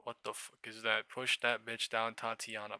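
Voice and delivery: ordinary talk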